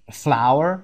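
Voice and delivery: flower said like flower, FLOW-er; flower pronounced exactly like the flower; flour pronunciation. Shown as a demonstration.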